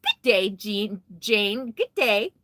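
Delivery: badly faked Australian accent on a halting hello; horrible Australian accent. Streamer greets a viewer from down under, bad Australian accent. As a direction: attempt a clumsy Australian greeting. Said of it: "That's a horrible Australian accent".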